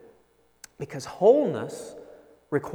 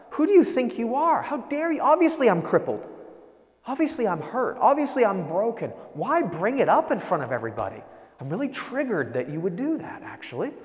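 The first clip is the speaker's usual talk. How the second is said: mock indignant outburst; 4 semitones higher than usual. Crippled man snapping back at Jesus, mock indignant outburst. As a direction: play the insulted cripple, half-hearted outrage. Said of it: "He could have gotten really angry".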